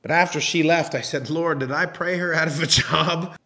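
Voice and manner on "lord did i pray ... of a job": laughing. Retold or imitated. Laughing at his own prayer.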